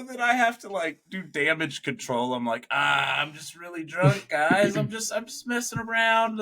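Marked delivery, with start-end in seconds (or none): 2.7-6.4 higher, a little embarrassed; a hint of awkward cover-up; sheepish excuse. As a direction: laugh it off to strangers. Damage control, embarrassed.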